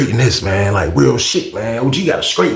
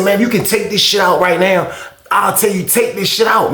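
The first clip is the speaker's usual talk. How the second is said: higher-pitched, pressing retort; insistent arguing; 5 semitones higher than usual. Retold or imitated. Arguing with OG over bad weed, insistent. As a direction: push it at him, voice raised in pitch.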